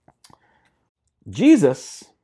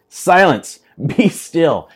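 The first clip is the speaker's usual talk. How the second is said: commanding rebuke; 3 semitones higher, 6 dB louder, much slower than usual. Retold or imitated. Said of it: "he rebuked the wind".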